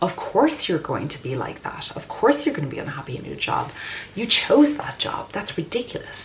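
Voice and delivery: mocking self-critic voice; harsh inner critic. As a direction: sneer at yourself like a cruel judge. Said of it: "that harsh, judging critic".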